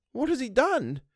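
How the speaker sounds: a worried servant, near tears; Missus Gross voice. A narrator's reading. Housekeeper begs the governess, anxious.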